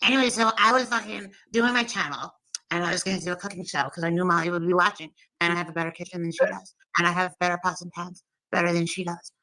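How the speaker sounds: lightly voiced rival showing off; Molly impression. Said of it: "How do you do impressions so good?".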